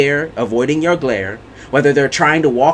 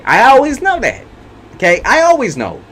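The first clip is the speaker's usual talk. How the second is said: higher, insistent declaration; emphatic insistence; 8 semitones higher than usual. Real, not acted. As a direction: drive home that she always knows. Insisting she always knows.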